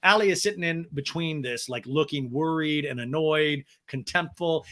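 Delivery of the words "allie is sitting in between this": ordinary talk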